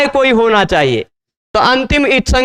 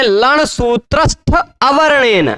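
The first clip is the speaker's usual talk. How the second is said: reciting the sutra; slower than usual. Shown as a demonstration. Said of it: "लण सूत्र में कहीं अवर्ण दिखाई".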